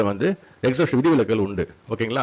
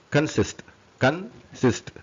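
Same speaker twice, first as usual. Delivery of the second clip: syllable by syllable; 4 semitones higher, 3 dB quieter than usual. Shown as a demonstration. Teacher splitting word into syllables.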